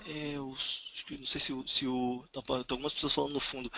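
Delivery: broken, faint audio over a bad line; call dropping out. Real, not acted. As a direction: voice cutting out on the call. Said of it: "o som tá falhando".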